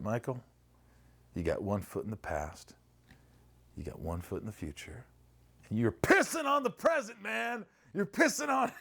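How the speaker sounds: high mock-frantic therapist voice, shrill jump on pissing; imitating his therapist getting worked up; therapist quote. Therapist scolding Michael about the present, mock high voice. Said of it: "he's like".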